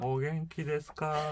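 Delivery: put-on English-accented Japanese. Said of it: "英語なまりの日本語で叫んだ".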